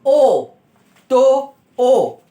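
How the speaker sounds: ओ sung out loud and very slow; drawn-out vowel. Shown as a demonstration. Teacher introducing the vowel to pupils, loud drawn-out ओ. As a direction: stretch the ओ long for children to copy. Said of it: "अब आता है आपका".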